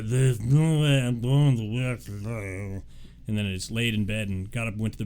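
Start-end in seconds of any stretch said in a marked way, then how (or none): 0.0-2.8 sick self. Retold or imitated. Quoting own sick self.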